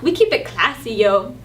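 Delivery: put-on tough New York street accent; mild New York accent. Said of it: "in New York".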